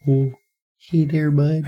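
coached Canadian greeting, lightly voiced; Canadian buddy accent. Shown as a demonstration. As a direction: show a Canadian hoser greeting. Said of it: "Pull it more up into your nose".

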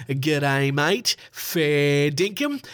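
lightly Australian slang, Fair dinkum drawn out slowly; a hint of an Australian accent on the slang; Aussie vocab. Shown as a demonstration. Host shows off his Aussie vernacular with a light Australian accent. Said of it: "get really into my Aussie vocab and my vernacular".

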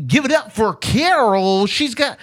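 loud, high booming stage announcer; fighting game announcer. Pretend. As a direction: hype up the crowd like a ring announcer. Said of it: "your announcer voice".

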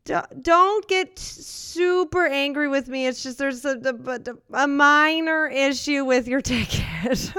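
nervous worker. Acted. Nervous worker in improv scene.

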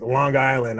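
Long Island run together as "Lawn Guyland"; local accent slip. Shown as a demonstration. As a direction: let the G of Long lead into Island. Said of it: "But I'm always like".

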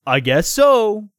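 acted, drawn-out character answer; Ted. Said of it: "replied Ted".

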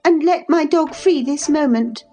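put-on high, demanding girlish order; imperious exclamation. A narrator's reading. Cathy orders the woman to free her dog, demanding. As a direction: insist on it at once. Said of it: "she exclaimed".

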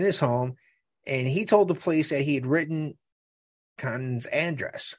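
measured trial narration; article read-aloud. Real, not acted. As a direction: read the evidence out from the page.

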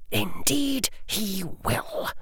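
very soft, slow, cold; soft cold agreement. A narrator's reading. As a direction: murmur it with chill. Lucius quietly agrees.

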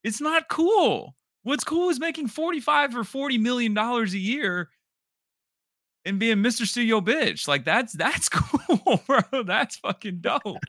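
high and loud, laughing through it; laughing rant. Real, not acted. Mocking the player's choices to co-host, high laughing rant. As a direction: spell out what's cool, cracking up.

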